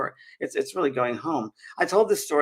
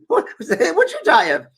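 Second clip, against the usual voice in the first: slow, high, louder mock-Scottish question; Mary, Scottish lady; 8 semitones higher, 7 dB louder than usual. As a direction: ask slowly as a Scottish woman. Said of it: "I'm trying to my Scottish accent".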